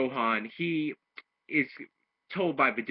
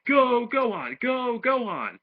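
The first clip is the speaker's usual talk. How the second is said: high excited chant; rally him like a fan in the crowd; imitated crowd cheer; 9 semitones higher, slower than usual. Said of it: "they're all cheering".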